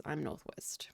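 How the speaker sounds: ordinary talk, nothing marked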